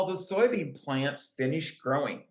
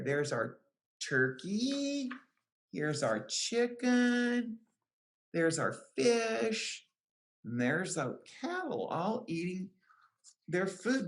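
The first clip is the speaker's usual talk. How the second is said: gentle pointing out; 3 semitones higher, 4 dB quieter than usual. Real, not acted. Pointing out pictures to children.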